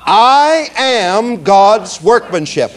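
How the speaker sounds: slow, every word spaced out for the room; slow recitation. Shown as a demonstration. Preacher leading the congregation in a slow spoken recitation. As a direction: lead the room through it word by word. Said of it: "now say it with me".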